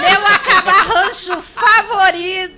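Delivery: laughing through words; loud laughing line. Real, not acted. Laughing while introducing guest.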